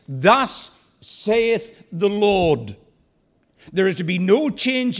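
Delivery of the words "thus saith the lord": a slow, solemn prophet's proclamation, only lightly raised; full-voiced proclamation. Preacher voicing Jonah's divine message, slow and solemn. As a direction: proclaim it like a prophet under orders. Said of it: "to declare with full voice".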